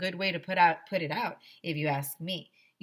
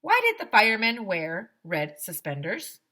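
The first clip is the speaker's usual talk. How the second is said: much higher, louder lady's voice; firefighter lady; 4 semitones higher, 7 dB louder than usual. Acted. Firefighter thanking the applauding children, high and cheerful. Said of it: "said Missus Meyer".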